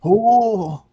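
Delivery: high drawn-out creature hoot; Pianta call. Acted. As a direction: whoop in full voice like a cartoon creature. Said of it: "can you just do your Pianta one more time?".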